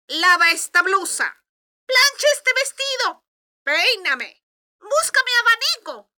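high, loud barked orders; bossy stepsisters. Acted. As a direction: snap orders like spoiled sisters. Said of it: "gritaban órdenes tan rápido".

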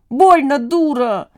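high, drawn-out yelp of annoyance; sudden angry flare-up. A narrator's reading. Romashka flicked on the nose by Kalancha, flaring up. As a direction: snap it high, then let it fall. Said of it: "неожиданно психанула Ромашка".

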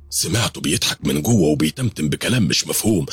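usual speaking voice

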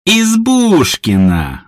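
high, slow, drawn-out surprised cry; exclaiming a name. A narrator's reading. Aunt Lo exclaims on recognising Едвига, high and slow. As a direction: she spots an old foe. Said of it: "воскликнула тётушка Ло".

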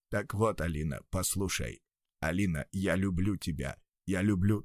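soft, low, muffled confession. Acted. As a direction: declare love from inside a bag. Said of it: "голос стал звучать более глухо".

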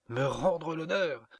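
incredulous amusement. A narrator's reading. Woman mocks her suitor's offer, incredulously amused. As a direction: echo it high, as if about to burst out laughing. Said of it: "éclata de rire".

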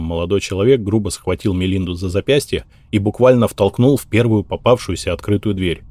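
ordinary delivery, nothing marked

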